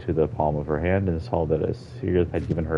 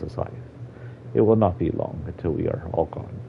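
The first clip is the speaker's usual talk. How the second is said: old Argonian voiced with a Jamaican lilt; light Jamaican accent for the elder. Old Argonian explaining the lost forest to a child, Jamaican accent. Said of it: "giving him a Jamaican accent".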